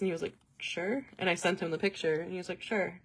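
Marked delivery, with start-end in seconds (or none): 0.6-1.1 quiet, noncommittal "sure"; unenthusiastic reply. Retold or imitated. Boyfriend answering the invite to Columbus, imitated as unenthusiastic. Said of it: "be more excited than sure". 2.6-3.0 imitated lukewarm "sure"; unenthusiastic reply. Boyfriend replying to the ticket picture, imitated as unenthusiastic. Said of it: "be more excited than sure".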